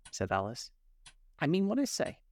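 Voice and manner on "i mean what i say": offended. A narrator's reading. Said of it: "replied in an offended tone".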